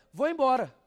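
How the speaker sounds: sudden loud high "Vou embora"; wife suddenly announcing she is leaving, loudly; blurted exit line. Retold or imitated. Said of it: "ela olha pra ele".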